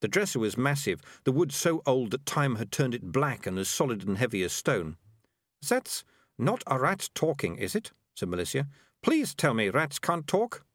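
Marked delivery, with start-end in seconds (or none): 5.6-10.7 put-on haughty girl voice. Malicia in disbelief.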